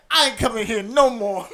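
laughing quote. Retold or imitated. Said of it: "He's like".

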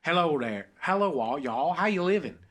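friendly Southern country greeting; country accent. Shown as a demonstration. Friend asks who can do it instantly, country accent. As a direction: put on a country twang. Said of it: "like, a country accent".

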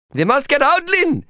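very high, panicked whining plea; hysterical whine. A narrator's reading. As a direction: whine in rising terror. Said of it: "his voice rising to a hysterical whine".

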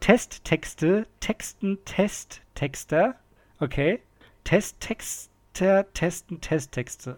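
very slow, separated words; langsam. Shown as a demonstration. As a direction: feel your way through each word. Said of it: "erst nochmal langsam". (ganz langsam, Wort für Wort)

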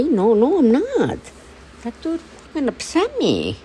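high and loud, worked up; retold upset reply to lead person; upset shout. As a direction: blurt out that you're not okay. Telling lead person she's upset.

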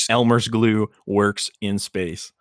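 slow, ad-style pronouncement; announcer voice. Pretend. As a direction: sell it like a commercial.

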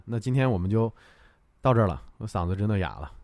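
hoarse after a long stream. Real, not acted. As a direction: talk through a sore, worn throat.

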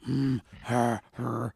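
low, soft huffing; little put-on grumbles, kept quiet; mock huffy grunts. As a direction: imitate a child's sulky huffs. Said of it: "She's getting all huffy and puffy".

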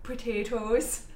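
slow, drawn-out Po-tay-toes; Samwise voice. Retold or imitated. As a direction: say it like Samwise from Lord of the Rings. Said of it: "I was saying it like that 'cause of Samwise".

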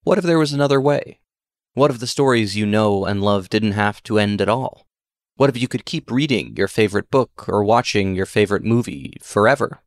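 eager TV pitchman asking; infomercial voice. Acted. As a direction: sell it like a late-night ad. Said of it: "adopt my best infomercial voice".

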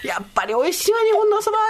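lightly acted delight, climbing high; delighted contestant. Foreign contestant praising Japanese soba, acted delight. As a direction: rise into a high, savoring exclamation.

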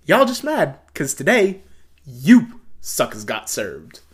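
high taunt, slowing to drag out \"you suckers got served\"; dance battle taunt. Retold or imitated. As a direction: taunt the rival crew, stretching the ending. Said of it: "So it goes".

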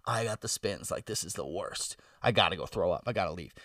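low, subdued, sinking groan of realisation; queasy dread. Retold or imitated. Drunk man realising he has to throw up, low queasy dread. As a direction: mutter it low to yourself, sick with dread.

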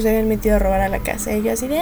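ordinary delivery

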